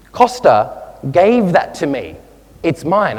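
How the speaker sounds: "gave that to me" slowed and leaned on, imitating a stunned son; emphatic protest. Stunned friend objecting to his mother, emphatic imitation. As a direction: put mild mock-indignant weight on "gave that to me". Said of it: "he put a lot of emphasis".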